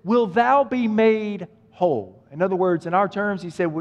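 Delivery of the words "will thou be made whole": put-on slow, old-fashioned Bible voice; lightly voiced Jesus, slow and formal; solemn Jesus. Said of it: "Jesus looks at him and he says".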